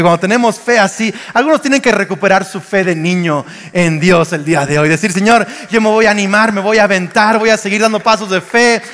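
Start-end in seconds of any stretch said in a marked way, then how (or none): 5.1-8.8 quick, higher, urgent resolve; rally yourself aloud, pushing on in a rush; fired-up declaration. Acted. Preacher voicing a believer's pledge to the Lord, fired-up declaration. Acted bold declaration to God.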